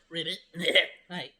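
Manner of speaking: hoarse croaky voice after coughing; frog in throat. Real, not acted. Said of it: "I still got a frog in my throat".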